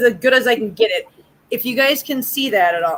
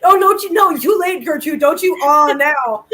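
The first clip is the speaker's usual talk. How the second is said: a hint of playful scolding, higher; mock scolding; 4 semitones higher, 4 dB louder than usual. Scolding her friend Gertrude in mock offense, higher. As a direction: tease her back, higher and louder. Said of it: "you're like".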